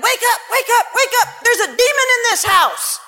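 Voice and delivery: high, urgent calls with a laugh; urgent wake-up call. Retold or imitated. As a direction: rouse him in a panic, half laughing. Waking husband, demon in house.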